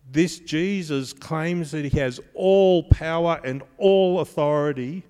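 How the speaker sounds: preacher pressing the claim; emphatic preaching. Real, not acted. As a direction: drive home "all power and all authority". Preacher stressing all power.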